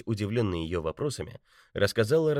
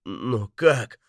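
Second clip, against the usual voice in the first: amazed; 4 semitones higher, 7 dB louder than usual. A narrator's reading. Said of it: "изумлённый Алексей".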